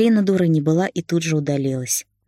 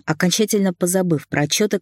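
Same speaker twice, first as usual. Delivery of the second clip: usual speaking voice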